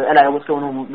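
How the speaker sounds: casual British speech as with workmates; everyday British tone. Shown as a demonstration. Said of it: "normal tone".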